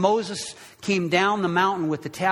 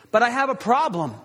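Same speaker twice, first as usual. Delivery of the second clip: higher, emphatic admission of being torn; 5 semitones higher, faster than usual. Acted. God torn in his anger, emphatic. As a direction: break off the threat with an insistent confession. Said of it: "God feels torn".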